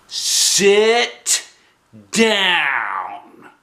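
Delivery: big sharp order, high and loud; stern grown-up lady voice; scary typing lady. Acted. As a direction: bark it like a scary school secretary. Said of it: "she said".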